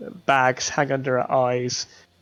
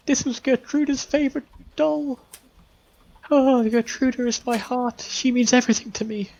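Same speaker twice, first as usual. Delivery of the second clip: put-on high, pleading old woman's voice; high tearful mother pleading at the door; desperate grieving mother; 10 semitones higher than usual. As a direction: beg for your lost child, pitched way up.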